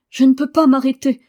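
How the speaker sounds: high, loud distressed cry; lightly acted sobbing protest; gasping, tearful. A narrator's reading. Sick boy unable to stop crying, high mock-tearful wail. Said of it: "haleta-t-il en sanglotant".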